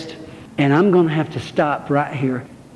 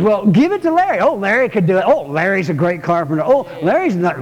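mocking everybody. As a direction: lightly send up the people pushing it onto Larry. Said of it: "Everybody says".

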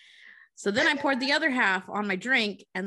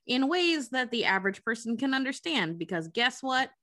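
bright announcer opening, lightly; upbeat host welcome; podcast intro; slower than usual. Acted.

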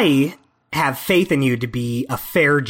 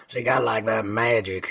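lower, softer, menacing villain voice; sinister voice; 5 semitones lower, 4 dB quieter than usual. Acted. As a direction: murmur it like a creepy villain. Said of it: "why you sound so sinister when you do that voice".

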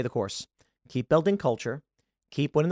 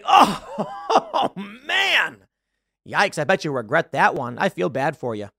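mocking pity; slower than usual.

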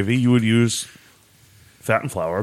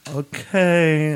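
drawn-out, higher, awkward okay; reluctant okay; 6 semitones higher than usual. Retold or imitated. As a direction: stretch it out like you're hesitantly giving in. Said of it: "and be like".

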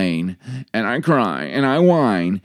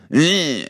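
short higher-pitched mock whine; imitated brat's "eh"; a grumbly kid noise; bratty whine; 7 semitones higher than usual.

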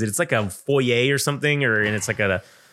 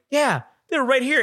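put-on much higher, whiny kid voice; mocking kid chorus; 11 semitones higher than usual. Other kids backing her up, in a high bratty kid voice. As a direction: imitate bratty kids piling on.

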